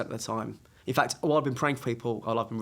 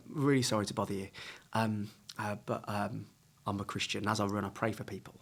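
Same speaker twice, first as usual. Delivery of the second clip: rehearsed approach; 4 semitones lower, 8 dB quieter than usual. Shown as a demonstration. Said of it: "I've worked on a little thing".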